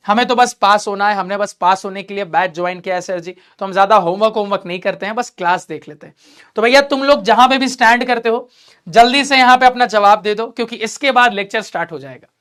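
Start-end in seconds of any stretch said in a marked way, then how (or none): 0.1-6.1 lightly acted, subdued admission, sinking at the end; unambitious student. Student telling sir they only want to pass, mildly half-hearted. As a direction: play down your effort, a touch sheepish.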